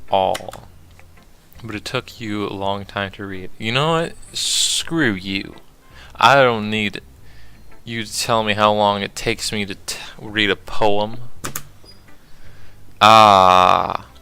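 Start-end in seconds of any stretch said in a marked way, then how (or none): 3.6-11.2 angry. Acted. Tsundere snaps at reader. 13.0-14.1 flustered loud ah. Acted.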